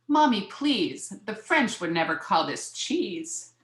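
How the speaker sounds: put-on mild childish complaint, drawn-out opening; lightly voiced child protesting to mother; child's plea. Child pleads with mother at dinner.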